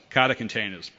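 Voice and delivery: Boston accent, Kata containers. Shown as a demonstration. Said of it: "great one for a Boston accent".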